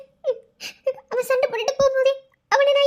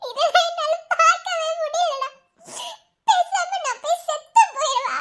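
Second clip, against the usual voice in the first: slow tearful laugh; 4 semitones higher than usual. Acted. Woman laughing crying, slow.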